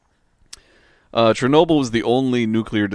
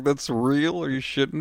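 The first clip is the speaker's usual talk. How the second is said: incredulous; 6 semitones higher than usual. Retold or imitated. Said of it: "I was like".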